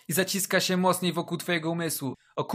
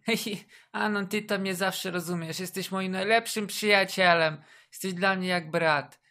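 mocking girl voice; 3 semitones higher than usual. Mocking girl friendzoning him.

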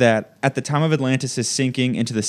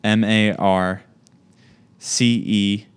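slow letter by letter; spelling it out; 3 semitones lower than usual. Real, not acted. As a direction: spell each letter slowly. Spelling name to type.

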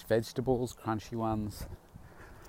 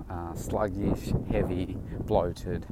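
mouth full. Real, not acted. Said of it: "Talking with a mouthful of apple".

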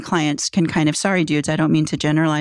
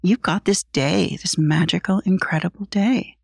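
slower affirmation. Shown as a demonstration. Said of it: "part of it is".

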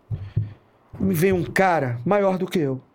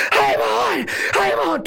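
very high, frantic mock yell; imitated desperate yelling; 14 semitones higher, slower than usual. Officer mimics his partner running up, desperate high shouting. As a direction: yelp it in comic desperation. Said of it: "vem o lindo desesperado gritar".

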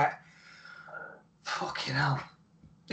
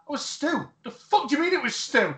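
Owen and Cornette exchange; 9 semitones higher than usual. Retold or imitated. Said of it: "he's like".

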